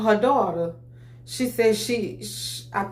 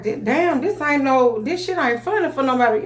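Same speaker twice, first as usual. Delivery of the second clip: snappy; 5 semitones higher, 3 dB louder than usual. Retold or imitated. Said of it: "I had got a little snappy with her".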